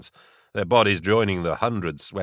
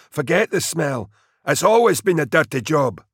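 high, forceful sergeant's voice; raised, rough-and-ready squad leader; snarling sergeant; 8 semitones higher, 3 dB louder than usual. A narrator's reading. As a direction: rebuke the grumbling troops. Sergeant rebukes complaining men.

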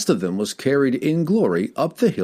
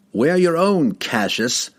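firm warning; 7 semitones higher, slower than usual. A narrator's reading. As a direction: turn the words back on him firmly. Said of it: "warned Argawal of Tourmaline".

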